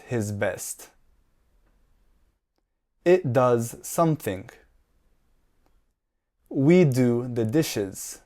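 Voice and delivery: slow, clearly separated words for repeating; measured language-teacher delivery, slowly; slow model sentences. Shown as a demonstration. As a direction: say each sentence slowly for learners to copy. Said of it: "I am going to say each sentence slowly".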